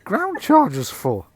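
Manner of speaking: high-pitched, baffled questioning; baffled second cop. Acted. Second cop questions Bill about cat litter, baffled. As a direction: demand an explanation, voice pitched right up. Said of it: "The other cop is going".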